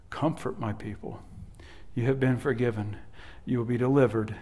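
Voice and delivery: hushed, tender "Comfort my people"; tender, soft. Acted. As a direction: ease "Comfort my people" gently to them. Closing quiet restatement.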